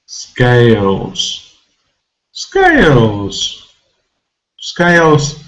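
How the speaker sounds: "Scales" with a drawn-out "ay"; long vowel. Shown as a demonstration. Teacher modelling a long vowel word, vowel drawn out. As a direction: stretch the A in Scales each time. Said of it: "has a long vowel sound A".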